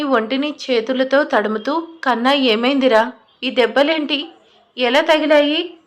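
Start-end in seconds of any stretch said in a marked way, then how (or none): 2.0-5.7 mother startled by her son's wounds, asks anxiously; anxious, alarmed. Acted. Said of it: "గాబరాగా అడిగింది". (కంగారుగా, ఆందోళనగా)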